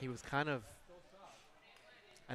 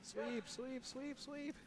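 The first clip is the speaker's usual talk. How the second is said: curling skip yelling; 13 semitones higher, 5 dB quieter, much slower than usual. Real, not acted. Skip calling sweepers on ice.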